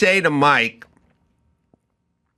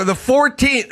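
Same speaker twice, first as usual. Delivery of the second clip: high mock answer; 10 semitones higher than usual. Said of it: "And he'll go".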